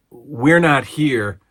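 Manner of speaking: Iron Sheik. Retold or imitated. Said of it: "Iron Sheik loses it".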